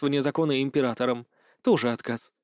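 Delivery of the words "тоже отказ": ordinary delivery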